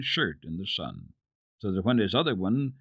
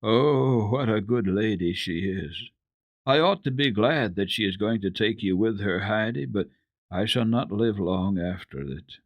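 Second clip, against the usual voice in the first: sad voice. Acted. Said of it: "there was sadness in her voice".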